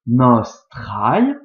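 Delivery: "Nostrae" étiré lentement; très lentement. Shown as a demonstration. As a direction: allonger chaque syllabe de "Nostrae". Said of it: "on le prononce très lentement". ("Nostrae" prononcé très lentement)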